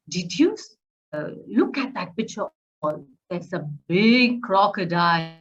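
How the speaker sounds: lively storyteller voice, big on the crocodile; storytelling to a child. Shown as a demonstration. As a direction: make the crocodile sound huge for a child. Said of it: "your voice should make that crocodile sound really big".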